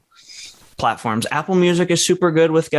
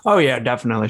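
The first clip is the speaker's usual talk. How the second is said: talking with a mouthful of chicken; eating chicken; faster than usual. Real, not acted. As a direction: speak through a bite of chicken. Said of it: "Sorry, I'm eating chicken".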